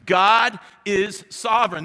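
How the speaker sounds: loud, slow proclamation; proclaiming. Real, not acted. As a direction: declare it to the whole room. Preacher proclaims main point.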